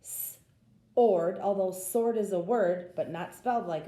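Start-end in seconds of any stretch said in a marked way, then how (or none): 0.0-1.4 "s-ord" with a hissed s before ord; wrong reading. Shown as a demonstration. Teacher showing the wrong s sound, "s-ord", louder. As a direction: give "s-ord" an s sound, the mistake to avoid. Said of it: "'cause it wouldn't be".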